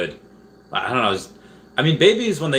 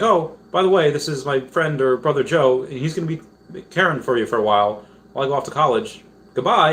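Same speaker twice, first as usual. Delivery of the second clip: put-on cheerful kids' host; 5 semitones higher than usual. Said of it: "He's like".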